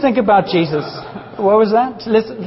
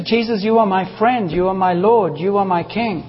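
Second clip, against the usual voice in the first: warm prayer; 3 dB quieter than usual. Shown as a demonstration. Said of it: "get used to".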